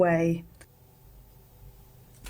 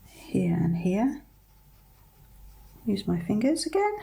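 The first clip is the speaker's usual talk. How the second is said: whispering; 2 semitones higher than usual. Real, not acted. Quiet concentrating detail work.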